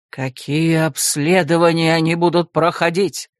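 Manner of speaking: low, rumbling demand; growled. Acted. Rector growls at the secretary, low. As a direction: snarl the question. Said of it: "рыкнул ректор".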